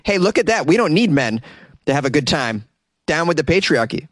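high, cheery mock protest slogan; mock protester voice. Protesters mocking men in a high cheery voice. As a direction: chirp it like a smug chant. Voicing lesbians' message.

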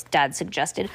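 ordinary delivery, nothing marked

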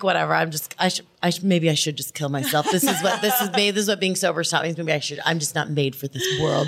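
put-on dramatic thirteen-year-old. Sulking at the co-host's comfort, hammed-up despair. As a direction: wallow lightly, pitch sunk, laugh underneath. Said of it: "the most dramatic fucking thirteen-year-old".

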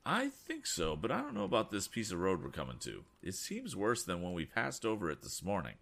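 put-on lifted, slightly worried young voice; young inventor, uneasy. Tom answering the passenger about the road, lifted and uneasy. Tom's voice.

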